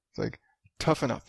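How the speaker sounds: whispered toughen up; muttered aside, whispered. Retold or imitated. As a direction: hiss it under your breath.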